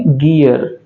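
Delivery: "गियर" with a hard g, not j. Shown as a demonstration. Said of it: "लेकिन ऐसा नहीं है".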